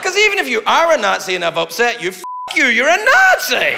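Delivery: rising to a shouted punchline; mock rant. Comic yelling at an imagined Nazi, loud. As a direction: build up and yell the last words.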